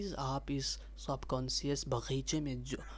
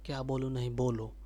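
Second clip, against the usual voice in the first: louder push to get going; self-urging; 7 dB louder, faster than usual. Real, not acted. Nervous vlogger pushes himself to speak, louder. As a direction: snap yourself out of it.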